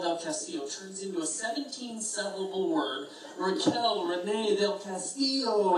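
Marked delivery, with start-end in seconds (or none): 3.4-5.8 put-on slow, stretched Hispanic-accented name; drawn-out Hispanic flair. Friend imitating her introducing herself to a guy, Hispanic flair. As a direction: roll out the name with Hispanic flourish. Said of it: "drags it out, this Hispanic flair".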